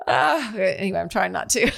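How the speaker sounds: holding back a yawn; stifling a yawn. Real, not acted. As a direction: talk through a suppressed yawn. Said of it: "I'm stifling my yawn".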